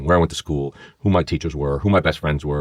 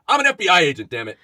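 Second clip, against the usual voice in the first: high-pitched mock yell; retold exasperated outburst; 11 semitones higher than usual. Agent imagining blowing his cover before the board, exasperated outburst. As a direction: blurt it out as if at breaking point.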